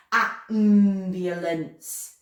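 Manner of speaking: slow robotic Ambulance, flat and mechanical. Shown as a demonstration. Teacher turning the class into robots: slow robot voice. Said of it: "Let's turn into robots and say it slow".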